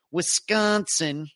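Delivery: Wisconsin drawn out in upper Midwest accent. Shown as a demonstration. Host wishing a viewer well, upper Midwest accent. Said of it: "I can do that in upper Midwest accent".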